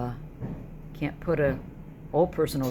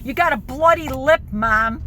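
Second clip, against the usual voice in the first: retold yelling; 9 semitones higher, 11 dB louder than usual. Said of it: "I'm like".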